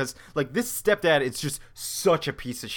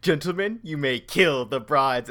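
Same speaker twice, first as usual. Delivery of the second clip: a hint of a pastor's proclamation, loud, slowing at the end; mock-officiate, laughter creeping in; lightly voiced pastor; 4 dB louder than usual. Comics fan retelling a wedding massacre, lightly voiced pastor. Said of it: "It starts with the pastor going".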